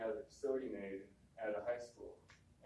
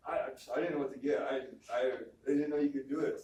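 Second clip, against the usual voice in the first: flustered teacher; 2 semitones higher, 8 dB louder than usual. Retold or imitated. Teacher flustered, brings candy.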